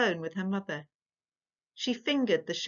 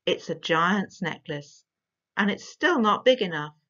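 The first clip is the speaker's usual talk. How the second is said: serious innocence; 4 dB louder than usual. Acted. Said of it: "her voice full of serious innocence".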